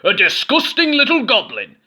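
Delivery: high, loud disgusted cry; disgusted innkeeper. A narrator's reading. Innkeeper yelling at Goblin, high loud disgust. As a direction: sneer at the little goblin. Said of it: "said the innkeeper".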